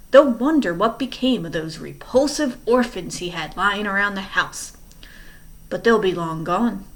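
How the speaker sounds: gloating, pleased-with-himself villain; a hint of a smug scheming guardian. Stefano gloats to the orphans about escaping, smug.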